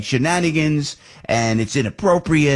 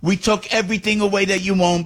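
sarcastic mock apology; 8 semitones higher than usual. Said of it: "uh, you know".

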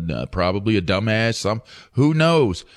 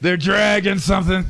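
mock dad yell; 7 semitones higher than usual. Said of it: "co-host quoting the dad".

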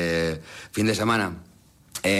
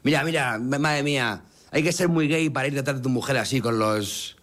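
lightly put-on voice of a scandalised incel; mock mega incel; 2 semitones higher than usual. Podcaster reads out an incel's tweet about a singer's husband, mock incel. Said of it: "algún mega incel puso en Twitter".

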